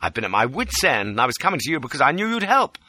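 high-pitched, urgent outpouring; distraught pleading. A narrator's reading. Fugitive begging Lola for help, distraught. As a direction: play desperate to win her over. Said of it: "The distraught pleading line".

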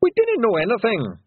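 high, loud Scots shout. A narrator's reading. Rob Anybody denying his name to the lawyers, loud shout. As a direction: bluster the lawyers away.

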